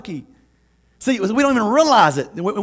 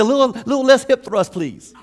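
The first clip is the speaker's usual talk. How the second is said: gentle correction; 3 semitones higher than usual. Retold or imitated. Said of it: "build a relationship with them and say".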